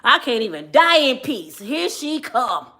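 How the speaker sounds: mock exasperated dad. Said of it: "I can see my daddy now".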